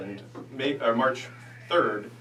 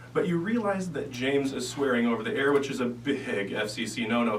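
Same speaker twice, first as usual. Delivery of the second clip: hypnotist voice. Acted. Hypnotist guiding trance.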